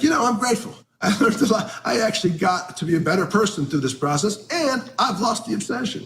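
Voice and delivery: high, self-satisfied sing-song; mocking himself as the smug grateful old timer. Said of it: "I'm that asshole who's like".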